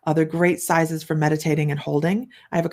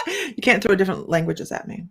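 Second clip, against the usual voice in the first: speaking through real laughter; laughing. Real, not acted. Host laughing at viewer's foreign words, laughing. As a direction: laugh while protesting.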